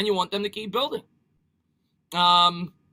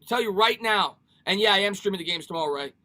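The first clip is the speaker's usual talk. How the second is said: ordinary talk, nothing marked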